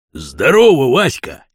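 loud hearty hail. Acted. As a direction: call out to someone you've spotted. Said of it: "его окликнул какой-то гражданин". (громкий оклик)

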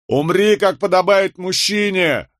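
high, hard cry from the crowd; shouted taunt. A narrator's reading. Twins shouting at their condemned father, jeering cry. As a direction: call it out pitched well up. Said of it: "это кричат близнецы".

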